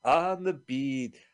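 slow mock dream. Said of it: "You were like".

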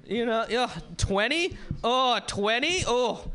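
mock disdain. Comic scoffing at a young crowd member, mock disdain. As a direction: sneer at the baby in the crowd.

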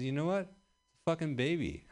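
mock angry retort. Answering the woman who scolded his language, a hammed-up angry comeback. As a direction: snap back in pretend outrage. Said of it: "I was really kinda upset".

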